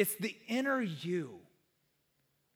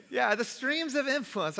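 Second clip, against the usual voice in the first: mock excited; 3 semitones higher than usual. Shown as a demonstration. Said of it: "say it as if it's exciting".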